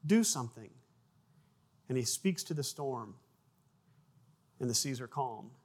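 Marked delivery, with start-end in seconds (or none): 0.0-0.7 mildly urgent plea, pitched up; pleading disciples. Acted. Disciples waking Jesus in a storm, pleading. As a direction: call on him for help, drawn from the storm.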